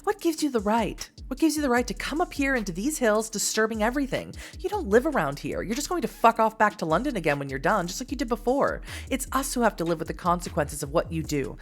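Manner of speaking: mildly indignant, lively scolding; lightly acted angry local woman; confrontational woman. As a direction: challenge an intruder, pushing each accusation. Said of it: "Finally, she speaks".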